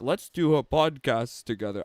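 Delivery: put-on half-hearted go at an Australian accent; badly faked Australian accent; attempted Australian accent. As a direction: imitate an Australian and not quite get there. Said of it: "I can't do an Australian together accent".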